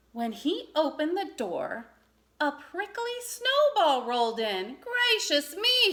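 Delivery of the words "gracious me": high, loud, slow amazed exclamation; surprised. A narrator's reading. Badger opens the door to a snowball, slow amazed high gasp. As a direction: gasp it out in wonder. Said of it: "he said in surprise".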